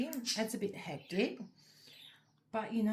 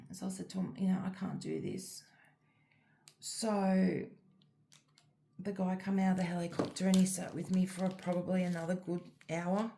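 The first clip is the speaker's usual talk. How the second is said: whisper. Real, not acted. Quiet retelling of the rescue.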